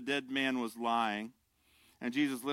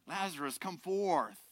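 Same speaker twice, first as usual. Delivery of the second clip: commanding call, held back in volume; a hint of a commanding summons; with authority; 3 semitones higher, 4 dB quieter than usual. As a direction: call the dead man out with quiet authority. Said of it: "he said it with authority".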